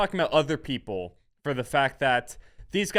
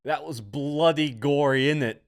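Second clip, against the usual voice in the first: put-on Australian accent; 4 semitones higher, 5 dB louder than usual. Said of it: "I don't know if that's Australian".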